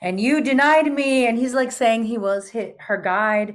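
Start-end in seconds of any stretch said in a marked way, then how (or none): 0.0-1.3 put-on louder, higher reproachful old Spaniard; raised, grand Old World voice. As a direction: accuse her like a stern old guide. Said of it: "speaking in what I call Shakespearean Spanish".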